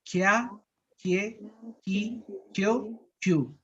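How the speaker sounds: Kia, Kie, Ki, Kyo with a soft, light k; soft k variant. Shown as a demonstration. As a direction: keep it gentle. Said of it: "Más suave". (pronunciación suave)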